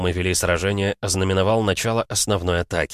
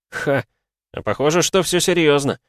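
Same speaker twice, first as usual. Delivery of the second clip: excited; 9 semitones higher, 4 dB louder than usual. Acted. Hero grins, fight coming.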